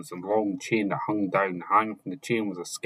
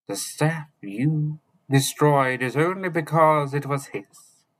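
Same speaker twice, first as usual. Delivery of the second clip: sharp exclamation; 6 semitones higher, 3 dB louder, slower than usual. A narrator's reading. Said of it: "Merlin exclaimed".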